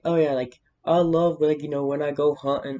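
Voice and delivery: lightly mocked Southern hunter; southern accent. Imitating a guy who loves hunting, in a light southern accent. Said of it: "giving it a southern accent".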